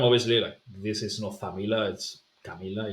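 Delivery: ordinary talk, nothing marked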